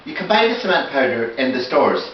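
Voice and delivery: slipping into a northern Irish accent. Real, not acted. Builder explaining cement shopping to viewers, northern accent. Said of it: "going into a northern accent now".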